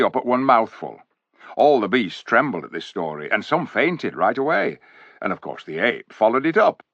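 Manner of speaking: a hint of a gruff loyal dwarf, brisk; lightly voiced dwarf; dwarf storyteller. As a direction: tell the king the bad news as a plain-spoken dwarf. Dwarf retells the ape's tale.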